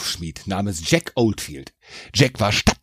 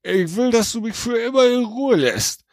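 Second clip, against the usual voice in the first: higher, put-on Jack voice; Jack's demand; 8 semitones higher than usual. A narrator's reading. Jack bargaining with the trapped devil, sly. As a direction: lay down the demand slyly. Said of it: "Das war Jacks Chance".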